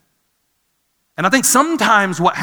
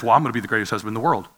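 empty boast; 5 semitones lower, much faster than usual. Retold or imitated. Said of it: "I'm not the guy that just says".

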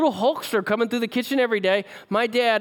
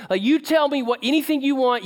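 eager offer; 7 semitones higher than usual. Retold or imitated. Eager offers to sick dad.

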